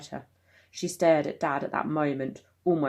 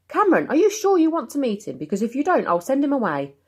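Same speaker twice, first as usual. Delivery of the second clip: concerned father; 9 semitones higher, 5 dB louder, faster than usual. Acted. Dad checking on son.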